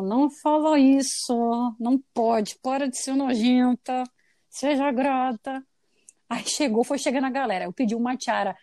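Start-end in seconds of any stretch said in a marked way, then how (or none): 0.0-5.6 slow, lightly voiced scolding mother. Mother slowly scolding her ungrateful daughter, mildly stern. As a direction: spell out each rebuke slowly, like a mild mom. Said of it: "E minha mãe falou".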